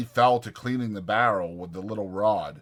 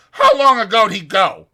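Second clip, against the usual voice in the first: loud, higher, pressing question; urgent demand; 12 semitones higher, 13 dB louder than usual. Acted. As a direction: demand an answer fast. Curly hunting Slim.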